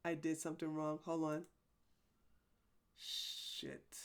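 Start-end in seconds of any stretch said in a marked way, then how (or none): 3.0-4.0 whispered curse. Real, not acted. Chat broke, muttered curse.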